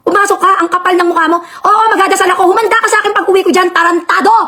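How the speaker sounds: furious cursing, calling her in; angry yelling. Real, not acted. Host on live stream cursing at Beverly, furious. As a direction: rage at her through the door.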